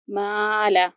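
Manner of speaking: माला with a thin, light "ma"; light mim. Shown as a demonstration. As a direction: keep माला light, no mouth filling. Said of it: "देखिए कि ये बारीक होता है".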